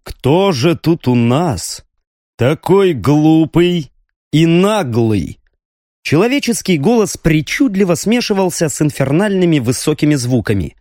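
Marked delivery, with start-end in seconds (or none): 0.0-5.4 slow, menacing demon taunt; demonic voice. Acted. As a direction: sneer it like a monster. Demon emperor taunts captive.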